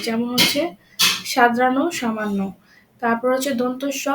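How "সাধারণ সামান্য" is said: স in সাদরানো, সামান্য turned to sh. Shown as a demonstration. Teacher models example words, সাদরানো, সামান্য starting with sh. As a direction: say সাদরানো, সামান্য as "shadharon, shamanno". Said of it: "তালিবস্যর মতো উচ্চারণ হচ্ছে".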